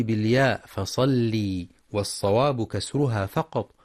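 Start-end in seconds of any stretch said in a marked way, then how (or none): 0.0-1.7 فصلي with a long ي sound on the ل; wrong lengthening. Shown as a demonstration. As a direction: stretch the ل of فصلي into a long ee as a mistake. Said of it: "من الخطأ أن تقرأ فصل بمد اللام".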